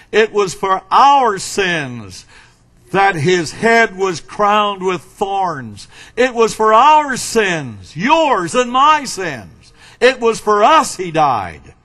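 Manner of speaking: slow, weighty preacher's cadence, building; solemn pulpit delivery with swelling emphasis; emphatic preaching. Acted. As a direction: preach it deliberately, leaning on the key words. Preaching with rising force.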